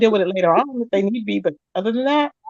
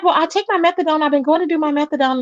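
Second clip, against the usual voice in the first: higher mock ditzy voice; mimicking the girl; 6 semitones higher than usual. Teller mimics the cellmate's excuses, higher ditzy voice. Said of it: "She's like".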